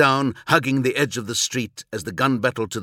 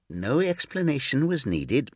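snide; 4 semitones higher than usual. Acted. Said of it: "Grammaticus replied snidely".

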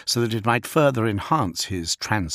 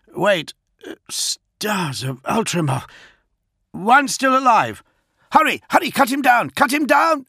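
much higher, louder frantic yelling; panicked captain yelling over the vox to his men; panicked shouting; 12 semitones higher, 5 dB louder than usual. Acted. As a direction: scream the orders as it all goes wrong.

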